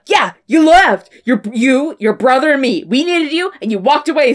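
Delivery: lightly hammed-up angry accusation; arguing dad. John blaming his son for leaving, mock-angry outburst. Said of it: "yells at his fucking dad".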